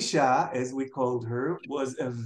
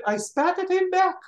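much higher, louder triumphant blurt; proud punchline; 14 semitones higher, 4 dB louder than usual. Retold or imitated. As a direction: announce it like a victory. Aunt's punchline of the story.

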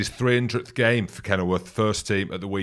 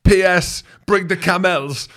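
high, slow mock French accent; hammed-up French accent; 10 semitones higher, 8 dB louder, slower than usual. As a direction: tack on a cheeky French postscript. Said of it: "in his accent".

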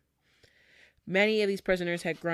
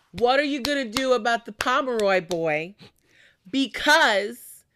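louder, higher, pressing demand; indignant townsfolk; 6 semitones higher, 6 dB louder than usual. Retold or imitated. Angry Boston residents confronting the governor, indignant. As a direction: voice an outraged crowd confronting officials.

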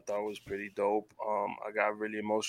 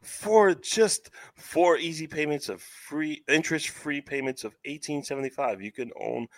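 home shopping host; 4 semitones higher than usual. Pretend. Mock infomercial payment pitch.

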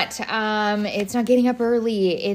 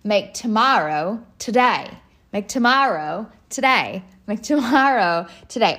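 put-on Australian accent. Host imitating an Australian church speaker, mock Australian accent. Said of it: "in her Australian accent".

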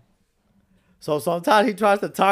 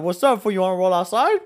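retold call-out, a bit raised; mildly riled confrontational quote; heated retelling; 3 semitones higher, 4 dB louder than usual. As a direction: challenge him to a fight, re-enacted. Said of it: "I got heated".

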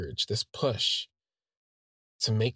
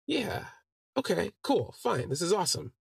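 excited; 9 semitones higher than usual. Retold or imitated. Narrator's excited high reply.

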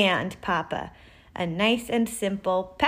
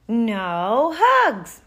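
put-on loud, higher childish wail; wailed refusal; 4 semitones higher, 7 dB louder than usual. A narrator's reading. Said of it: "wailed Bernard".

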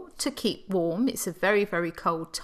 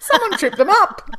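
higher and louder, laughing out the joke; laughing quip; 11 semitones higher, 10 dB louder than usual. Real, not acted. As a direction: burst out laughing on the line. Laughing joke about the cattle.

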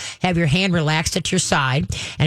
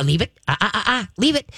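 warning cue; 2 semitones higher than usual. Shown as a demonstration. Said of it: "you can use it when his ears go".

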